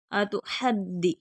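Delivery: अतुहद्दि with throaty ह and hard doubled द; firm doubled d. Shown as a demonstration. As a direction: lean firmly on the द्द of अतुहद्दि. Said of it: "दाल मुशद्दद है". (अतुहद्दि, दाल सख्ती के साथ)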